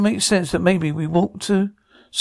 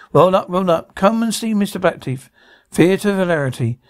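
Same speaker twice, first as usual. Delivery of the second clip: lightly voiced showman drumming up a crowd; circus barker. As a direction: call them in like a mild fairground barker.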